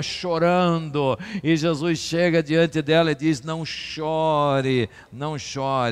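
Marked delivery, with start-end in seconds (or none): 3.4-5.8 gentle comfort. Acted. Jesus comforting, slow and soft.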